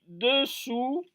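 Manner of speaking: slow, soft "dessous" with a rounded de-; correct pronunciation demo. Shown as a demonstration. Teacher correcting learners, slow and careful "dessous". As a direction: model "dessous" slowly as deu-ssou, rising. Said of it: "on dit dessous".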